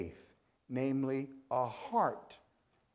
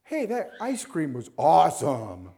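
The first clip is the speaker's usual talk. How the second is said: casual everyday gush; 6 dB louder than usual. Retold or imitated. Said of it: "because everybody says".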